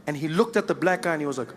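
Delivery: ordinary delivery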